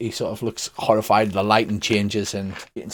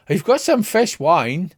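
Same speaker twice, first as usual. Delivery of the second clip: slow, higher wife's voice; 5 semitones higher, slower than usual. Acted. GM as the wife offering fish wine, slow and higher. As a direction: drag it out as the wife. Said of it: "She says".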